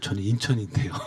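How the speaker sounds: small, quiet, shrunken, subdued voice. Recalling saying they're from Incheon, not Seoul, at church: smaller, quieter voice. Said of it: "그럼 약간 톤이 작아져요".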